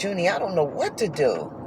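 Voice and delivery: soft, tearful plea to the horse; mild imitation of crying; retold crying plea. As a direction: quietly beg her not to leave. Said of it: "I just start crying like".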